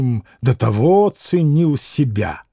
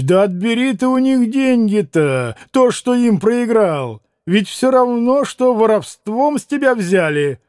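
higher, insistent plea; urging appeal; 5 semitones higher than usual. Acted. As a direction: urge him in a raised pitch. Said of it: "возгласил Трифон Борисович".

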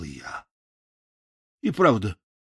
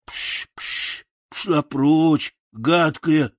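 stammering shout to shoo a crow; sputter, then shout "прочь"; scarecrow shouting; 4 semitones higher, much slower than usual. Acted. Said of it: "закричал я". (Страшила прогоняет ворону, запинаясь и крича)

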